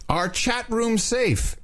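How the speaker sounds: drawn out slowly, ending high; slow dramatic reading. Shown as a demonstration. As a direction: stretch every word for effect. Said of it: "Listen up, chat room".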